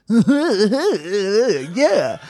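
high laughing yeah; laughing yes. Retold or imitated. Retold guy answering with a laughing yes. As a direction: squeal it out through a laugh.

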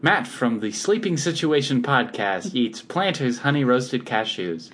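slow, drawn-out ad slogan; hard sell ad. Acted. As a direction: pitch it like a TV spot. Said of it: "pretending I'm in a commercial".

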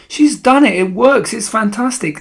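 high-pitched excited cheering; yelling audience. A narrator's reading. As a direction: cry out in delighted amazement. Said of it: "yelled the audience".

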